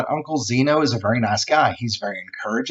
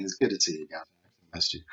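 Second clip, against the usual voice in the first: warm greeting; 7 semitones lower, 10 dB quieter than usual. Pretend. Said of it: "I'd be saying".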